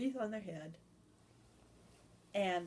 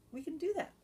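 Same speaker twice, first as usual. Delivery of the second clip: delighted Santa; 9 semitones higher, faster than usual. Acted.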